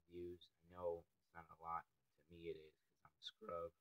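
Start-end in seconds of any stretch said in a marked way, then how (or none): 2.8-3.7 the word "scrub" breaks as the voice cracks. Real, not acted. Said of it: "Voice crack".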